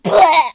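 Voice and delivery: loud comic "blah" of dying; mock death noise. Alderheart killed by Bone, loud comic death noise. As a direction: blurt out a cartoon death sound. Acts character being killed.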